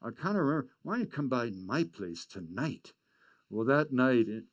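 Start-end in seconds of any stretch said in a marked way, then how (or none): 0.0-2.9 a lightly voiced, higher, hesitant elder; a hint of Alec, raised in pitch and unsure; imitating Alec. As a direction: slip into the old man's halting voice. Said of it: "he suddenly said".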